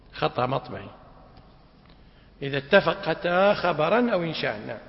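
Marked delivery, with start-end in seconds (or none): 2.4-4.6 "اتفقتا" said with a doubled first taa. Shown as a demonstration. Teacher rereads after a misprint, "اتفقتا" with doubled taa. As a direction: hold the doubled taa in "اتفقتا", not a plain sukun. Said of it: "يعني بتشديد التاء مو بالسكون".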